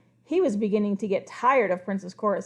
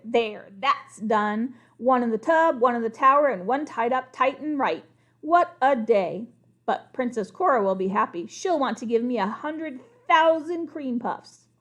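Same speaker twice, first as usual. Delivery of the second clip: smug gloat; 4 dB louder than usual. Acted. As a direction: savour the victory. Crocodile gloats alone.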